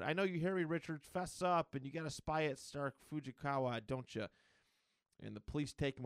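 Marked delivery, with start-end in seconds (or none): 0.0-4.3 higher-pitched, half-hearted accusing rant; mock freaking out. Fired doctor accusing Reed Richards of theft, mock freak-out. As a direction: mildly imitate an enraged accuser. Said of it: "he's freaking out".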